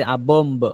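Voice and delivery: A bomb said as bom with no b at the end; silent final b. Shown as a demonstration. Teacher showing that bomb has no final b, silent b. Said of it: "শেষে বি এর উচ্চারণ হবে না".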